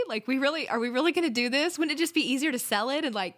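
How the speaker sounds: incredulous. Retold or imitated. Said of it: "I thought".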